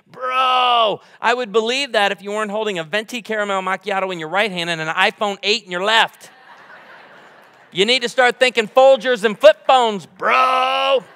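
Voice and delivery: mock preachy shout at young guys, laughing near the end; retold retort. Preacher retelling his comeback to young guys, in a playful mock shout. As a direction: call them out, loud and playful.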